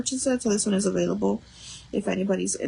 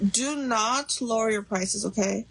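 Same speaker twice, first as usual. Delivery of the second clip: really stern. Real, not acted. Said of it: "like, really stern".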